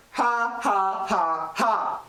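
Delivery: deliberate, spaced-out ha-ha at someone; mocking laugh. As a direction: laugh pointedly in the listener's face. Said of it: "I'm laughing at you".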